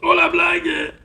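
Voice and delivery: Oh, la blague! squealed high and loud; a burst of delighted disbelief; surprised cry. Real, not acted. Vlogger to viewers on opening the parcel, high delighted cry.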